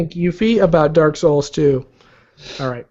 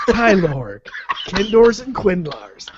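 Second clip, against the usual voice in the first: movie trailer voice; 2 semitones higher than usual. Acted. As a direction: read it like an epic trailer. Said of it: "movie trailer voice".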